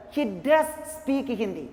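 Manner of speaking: firm weight on "does"; stress on DOES. Shown as a demonstration. Teacher insisting he speaks no other language, stress on "does". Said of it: "the second sentence is emphasized".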